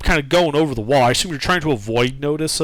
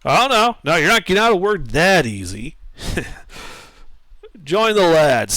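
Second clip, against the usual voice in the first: put-on older halfling voice; 2 semitones higher than usual.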